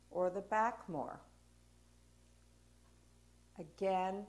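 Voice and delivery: gentle, even guidance with long pauses; guided body scan. Real, not acted. Teacher asking a class to sense each side of the body, guided body scan.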